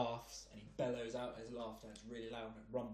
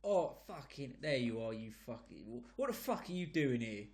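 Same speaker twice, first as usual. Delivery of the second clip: put-on London geezer accent. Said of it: "in a London accent, like a proper geezer".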